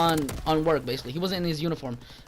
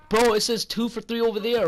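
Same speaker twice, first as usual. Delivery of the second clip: mildly whiny customer imitation, pitched up; retold bitching; 4 semitones higher than usual. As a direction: mimic his griping without much volume.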